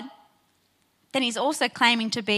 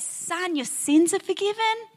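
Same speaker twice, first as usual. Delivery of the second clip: higher, anticlimactic replay of the words; deflated echo; 5 semitones higher than usual. Retold or imitated. Pastor replaying Jesus' words as a letdown, higher and deflated. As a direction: repeat it as the disappointing answer. And instead you get.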